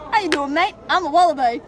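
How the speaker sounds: mock Aussie accent. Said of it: "say it with the British accent".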